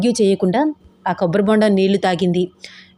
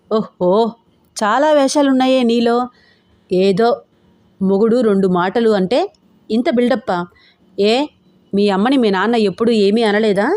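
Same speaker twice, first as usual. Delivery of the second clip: angry. Acted. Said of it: "కోపంగా అన్నాడు".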